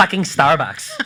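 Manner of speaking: put-on valley girl accent. Outlining a type of podcaster to Alex, in a Valley Girl voice. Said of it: "have the Valley Girl voice".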